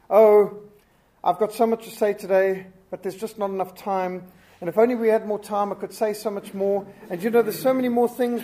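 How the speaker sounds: a hammed-up speaker lamenting lack of time; whiny speaker. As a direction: sigh as if time is too short. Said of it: "a speaker who stands up and says".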